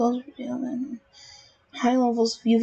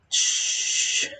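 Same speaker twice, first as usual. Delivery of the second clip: shushing. Real, not acted. Hushing viewers about keyboard.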